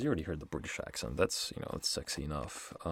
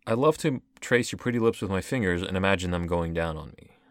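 quick, incredulous quote of the verse; fast, baffled read-back; 6 dB louder than usual. Retold or imitated. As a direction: rattle the line off in disbelief. I'm just baffled.

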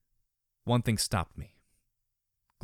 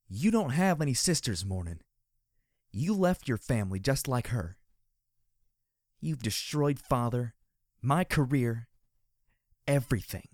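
hissing; 2 semitones higher than usual. Acted. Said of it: "Dusk hissed up at her".

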